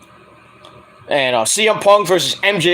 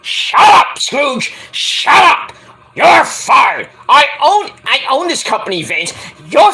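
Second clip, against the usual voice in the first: much higher, louder mock tirade; Vince yelling; 8 semitones higher, 5 dB louder, slower than usual. Vince McMahon yelling at Scrooge, much higher and louder. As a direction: fire him at full volume. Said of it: "Vince's like".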